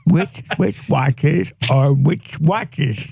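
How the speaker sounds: Adam Sandler voice. Real, not acted. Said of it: "You sound like Adam Sandler".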